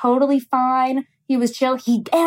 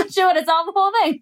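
high, fast words breaking into a teary laugh; laugh-cry it out, much higher and fast; laughing through tears; 7 semitones higher, much faster than usual. Real, not acted. Telling a friend about her mom, laughing through tears. Laughing retelling bleeding in bathroom.

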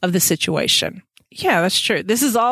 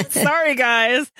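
laughing apology; 5 semitones higher, slower than usual. Acted. Mock apology while laughing.

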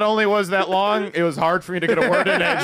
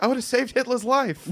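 Wahlberg impression; 6 semitones higher than usual. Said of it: "speaking of Wahlberg".

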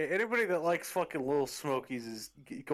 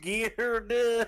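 slow, louder redneck drawl; mock redneck; 7 semitones higher, 5 dB louder, slower than usual. Friend joining the joke, slow mock redneck drawl. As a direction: stretch out get her done like a redneck.

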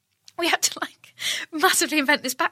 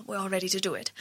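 Cheryl; 8 dB quieter, faster than usual. Acted. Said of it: "That's a terrible Cheryl impression".

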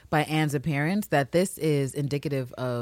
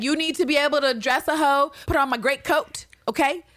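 bossy high voice; 7 semitones higher than usual. Retold or imitated. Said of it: "she was like".

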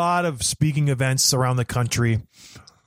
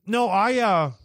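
chewing while talking; 5 semitones higher, slower than usual. Real, not acted. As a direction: mouth full, chewing. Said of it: "I'm sorry, I'm chewing".

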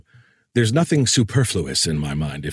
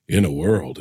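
lowered, lightly mimicked trailer voice; a hint of movie-trailer narrator, pitched down; movie announcer; 5 semitones lower than usual. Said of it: "everyone will walk around".

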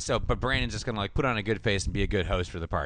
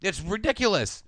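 much higher whiny mock yell; 12 semitones higher than usual. Retelling the show, mocking Brandon yelling at mom. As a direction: play a petulant teen yelling. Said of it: "he yells at his mom".

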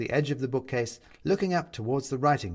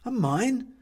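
tag; 11 semitones higher than usual. A narrator's reading. Startled question at the mine.

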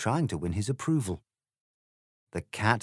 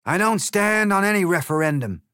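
loud, higher, curt egg retort; shot back; 11 semitones higher, 8 dB louder than usual. Acted. The egg snaps back at Alice, loud and curt. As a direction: fire it right back at her. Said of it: "he shot back".

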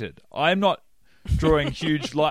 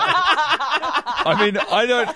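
laughing; 10 semitones higher, slower than usual. Real, not acted. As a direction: crack up, then speak through it. Bursts out laughing.

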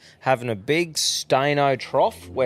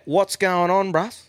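mimicking a greeting; 6 semitones higher, slower than usual. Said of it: "what's your story".

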